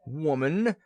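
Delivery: loud hoarse rasp. A narrator's reading. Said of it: "rasped Pajuka hoarsely".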